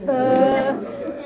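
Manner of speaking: UH held long, low and level; low hesitating tone. Shown as a demonstration. Teacher shows half third tone, low hesitating sound. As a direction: stretch UH like a hesitation, staying down. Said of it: "that's a half third tone".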